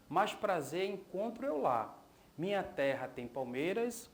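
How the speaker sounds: leitura poética cadenciada, verso a verso; recitação de poema. Acted. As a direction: recite the poem in measured lines, pausing between verses. (recitação de poema em voz alta)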